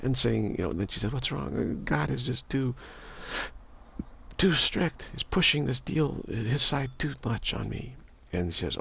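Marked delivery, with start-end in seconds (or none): 1.1-8.0 put-on crying child. Child crying to the mother goddess about strict God. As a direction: wail it like a complaining child. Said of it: "the child is crying".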